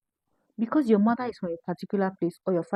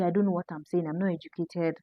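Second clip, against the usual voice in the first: mock quote; 8 dB quieter than usual. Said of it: "going ahead to even say".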